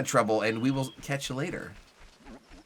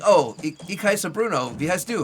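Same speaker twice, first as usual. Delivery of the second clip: imagined eager speaker; 5 semitones higher, 4 dB louder than usual. Acted. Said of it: "And like".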